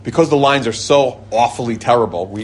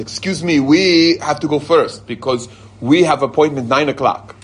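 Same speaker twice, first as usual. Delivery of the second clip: mock insistent, higher-pitched demand; pushy insistence; 3 semitones higher, 3 dB louder, slower than usual. Couple cutting a passport line, pushy and insistent. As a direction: push in with drawn-out urgency.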